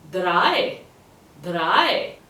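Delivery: Drei like "dry" with a stronger R; emphasised R. Shown as a demonstration. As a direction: lean on the R in Drei, rising for repetition. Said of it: "a bit more emphasis on the R".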